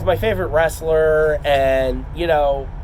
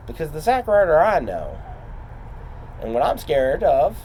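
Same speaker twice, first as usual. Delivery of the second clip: wrestling promo; 5 semitones lower, 3 dB quieter than usual. Acted. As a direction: call out your rival like a wrestler. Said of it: "So I'm gonna cut a promo".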